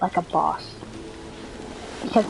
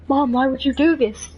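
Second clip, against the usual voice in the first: higher, pleading comic protest; mock distressed son; 6 semitones higher, 4 dB louder than usual. Skeleton son confronting his mom, high mock-distressed protest.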